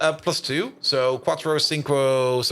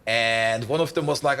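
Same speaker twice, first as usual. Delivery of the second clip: ordinary delivery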